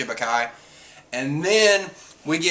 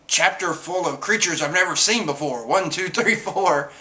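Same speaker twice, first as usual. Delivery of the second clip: lightly voiced odd character; weird way of talking; 4 semitones higher than usual. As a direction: imitate someone's peculiar manner of speaking. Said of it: "like, that weird kind of way".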